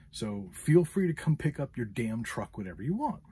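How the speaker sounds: mildly worked-up ultimatum, retold; retold angry threat. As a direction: retell it with rising indignation. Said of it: "volume of my voice went higher and higher".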